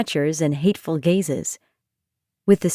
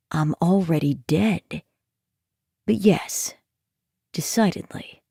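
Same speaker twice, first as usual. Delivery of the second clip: dry deadpan; 2 semitones lower, 4 dB quieter than usual. Acted. Nightmare's reply.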